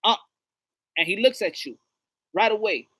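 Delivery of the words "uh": sharp, raised warning shout; warning a child. Acted. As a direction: call out to stop a toddler touching something. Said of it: "you be like".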